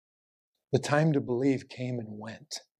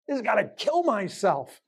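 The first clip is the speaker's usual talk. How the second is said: higher, anguished voice of Judas, mildly acted; tormented Judas; 8 semitones higher than usual. Preacher voicing Judas in his despair, anguished. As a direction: cry it out as a man in torment, understated.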